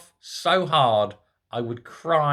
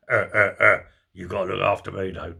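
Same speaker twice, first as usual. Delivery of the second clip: lower, put-on needy stammer; mock cellmate whimper; 7 semitones lower than usual. Cellmate asking Sturgeon to look after him, hammed-up lower whimpering voice. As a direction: ham up a cellmate begging to be looked after. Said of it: "a man putting her arm around her going".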